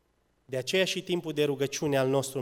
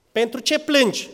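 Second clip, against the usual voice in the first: higher, louder pleading question; pleading repeat; 9 semitones higher, 8 dB louder than usual. Retold or imitated. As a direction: press the husband's question with feeling. Husband's question repeated, raised. (întrebare rugătoare, mai sus și mai tare)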